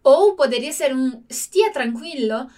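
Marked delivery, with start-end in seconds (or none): 1.3-2.5 slow, soothing "stia tranquillo"; calm them down gently; reassuring. Shown as a demonstration. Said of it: "pra tranquilizar mesmo, acalmar alguém".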